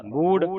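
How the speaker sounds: ਮੂੜ with a heavy, aspirated ੜ; heavy final sound. Shown as a demonstration. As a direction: put weight on the ੜ in ਮੂੜ. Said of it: "ਫਿਰ ਭਾਰਾ". (ਮੂੜ ਭਾਰਾ ਉਚਾਰਨ)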